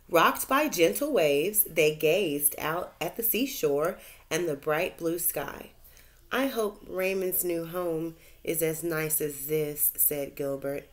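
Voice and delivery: bright, lively read-aloud voice; reading to children. A narrator's reading. Teacher reads a story to her class, lively storytelling. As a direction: tell it like a bedtime storybook.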